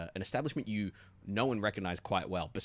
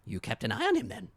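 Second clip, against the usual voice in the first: high, loud probing detective; 8 semitones higher, 9 dB louder than usual. Acted. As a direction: lean in like a suspicious cop. Detective presses the suspect.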